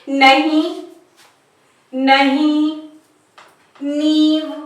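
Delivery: नहीं, नींव with vowels through nose and mouth; nasal vowel. Shown as a demonstration. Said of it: "उच्चारण नाक और मुंह दोनों से होता है".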